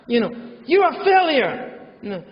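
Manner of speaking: nagging parent. Retold or imitated. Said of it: "they say".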